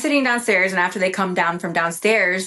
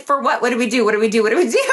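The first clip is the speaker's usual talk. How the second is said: frantic repeated questions, half laughing; retold freak-out; much faster than usual. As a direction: act out panicking in a rush of questions. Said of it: "I'm, like, freaking out".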